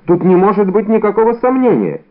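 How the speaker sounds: a flustered tradesman cries out to convince; eager exclamation. A narrator's reading. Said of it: "вскричал Бонасье".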